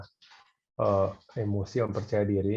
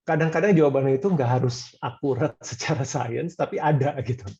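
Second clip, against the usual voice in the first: laughing whisper; 3 semitones higher, 5 dB louder than usual. Real, not acted. Laughing aside about unscientific answers.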